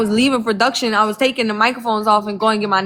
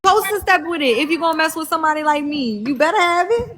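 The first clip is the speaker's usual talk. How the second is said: quick, higher, daring; sassy warning; 6 semitones higher, faster than usual. Acted. Warning anyone who dates her, quick and sassy. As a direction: challenge them, higher.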